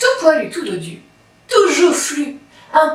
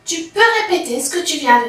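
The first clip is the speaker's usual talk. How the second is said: little rabbit; 5 semitones higher than usual. Acted. Rabbit voiced by narrator.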